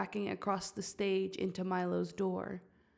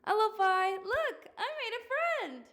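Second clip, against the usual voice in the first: called out high from offstage; excited call from off stage; offstage yelling; 14 semitones higher than usual. Acted. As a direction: yell it from the wings. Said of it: "Belize off stage yelling".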